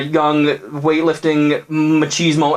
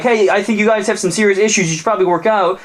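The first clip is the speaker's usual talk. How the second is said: helpful monster; 7 semitones higher than usual. Acted. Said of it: "kinda jumped in and said".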